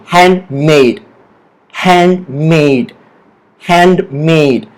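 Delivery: "handmade" slowly repeated, MADE stressed with a falling tune. Shown as a demonstration. Teacher leading say-it-with-me practice, stress on MADE in handmade. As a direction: drill "handmade", leaning on MADE. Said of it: "The stress is on this word".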